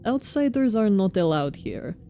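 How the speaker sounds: lightly voiced Russian foreman, guarded; a touch of a stern Russian accent. Foreman Oyun guarding his kin matter, light Russian accent. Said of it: "my Russian accent".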